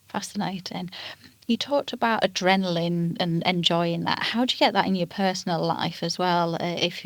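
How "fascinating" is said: breathy whispered echo. Real, not acted. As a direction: whisper the word back, impressed. Listener echoes guest's word.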